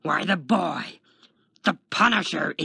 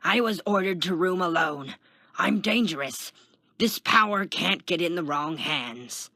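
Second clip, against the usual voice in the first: loud, raised-pitch yelling; urgent protest; 5 semitones higher, 5 dB louder than usual. A narrator's reading. Kenton begs the guard for his own cell, yelling. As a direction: protest loudly through a cell door.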